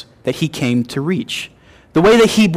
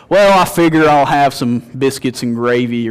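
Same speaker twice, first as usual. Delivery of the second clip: a northerner's attempt at a Kentucky accent; Southern Kentucky accent. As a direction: try out a Kentucky accent on the waitress. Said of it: "take my accent out on a walk".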